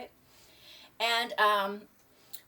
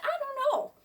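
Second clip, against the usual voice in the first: high shrug; 4 dB louder than usual. Retold or imitated. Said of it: "I said".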